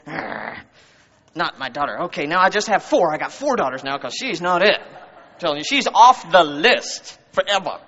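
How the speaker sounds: hammed-up huffy disowning; mock outrage. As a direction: strike her off with pretend indignation. Mock disowning of a misbehaving daughter.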